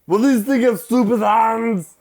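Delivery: high, loud quoted taunt; mock villain yell. Mimicking a movie villain for his wife, loud high taunt. Quoting villain line, laughing.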